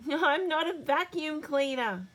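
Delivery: high, loud indignant cry; child shouting. A narrator's reading. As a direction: protest like a grabbed child. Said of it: "shouts Bluey".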